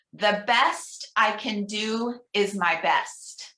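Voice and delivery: slow, deliberate leader's reading; slow affirmation reading. Shown as a demonstration. Minister reading an affirmation aloud for the congregation, slow. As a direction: lay each word down slowly for them to echo. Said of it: "I'm gonna read each one".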